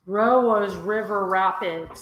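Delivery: slow, drawn-out attempt at an Australian accent; clumsy Australian accent, slowly; failed accent attempt. Shown as a demonstration. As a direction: try an Australian accent and miss. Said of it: "I can't even do an accent".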